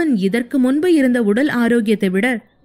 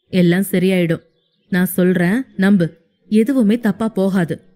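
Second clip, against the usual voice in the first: lightly voiced young man comforting; 3 semitones lower than usual. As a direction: lower male voice, gentle reassurance. Hero voiced by narrator. (தாழ்ந்த மென்மையான ஆறுதல் குரல்)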